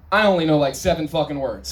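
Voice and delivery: a touch of a dopey guy; lightly voiced simpleton, laughing; dim guy voice. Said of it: "my impression of a guy with an even ever so slightly less limited vocabulary".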